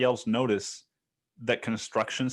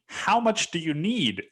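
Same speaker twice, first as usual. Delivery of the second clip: higher, mock-innocent auto-reply voice; 7 semitones higher than usual. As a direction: read the auto-reply like a chirpy robot. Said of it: "My email prompted me".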